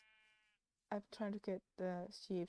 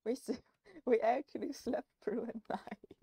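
laughing whisper; 5 semitones higher, 6 dB louder than usual. Real, not acted.

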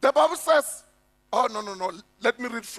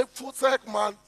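imitating a furious grieving widow; angry widow; 3 semitones higher than usual. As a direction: bite back at the preacher, outraged. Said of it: "she will look at me and say".

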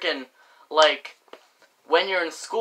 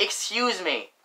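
soft, polite excuse me, said gently; 8 dB quieter than usual. Shown as a demonstration. Kid shows viewers the polite way, softly. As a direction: ask nicely to get past. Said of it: "That's how you say it".

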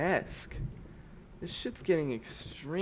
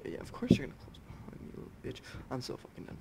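bitter whisper; 2 semitones lower, 6 dB quieter, faster than usual. Real, not acted. Door shuts behind him while hiding.

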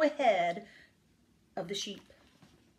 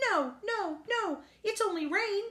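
Duck correcting; 10 semitones higher than usual. A narrator's reading. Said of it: "Duck informed".

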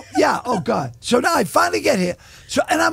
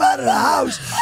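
excited shout. Real, not acted. Story climax.

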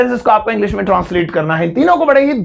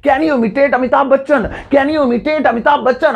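higher, clear question; demo question; 4 semitones higher than usual. Shown as a demonstration. Teacher modelling the question to students, higher. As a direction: ask it brightly as a model. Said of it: "अब आप देखिए क्या बोल सकते हैं".

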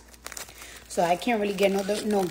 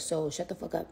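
soft shut up; 5 semitones lower, 9 dB quieter than usual. Real, not acted. Teasing fans, voice drops.

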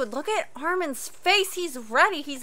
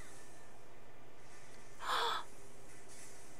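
soft intake of breath; real gasp; 5 semitones higher, 18 dB quieter than usual. Real, not acted. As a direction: gasp quietly in shock. Reacting to the show.

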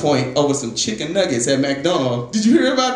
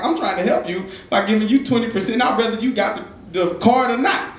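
higher-pitched, exasperated pleading; pissed-off retelling; 5 semitones higher than usual. Retold or imitated. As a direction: plead your case, annoyed and worked up. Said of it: "I'm getting pissed by now".

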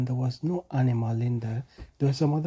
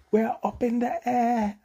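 excited animals; 8 semitones higher than usual. A narrator's reading. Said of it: "Bonobo was screaming".

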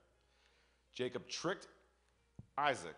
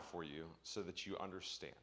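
whisper; 4 semitones lower, 8 dB quieter than usual. Real, not acted. Turning from reading to explaining.

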